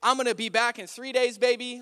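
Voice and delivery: playful, happy boast. Retold or imitated. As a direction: crow it like a man just given good news. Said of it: "now he's happy".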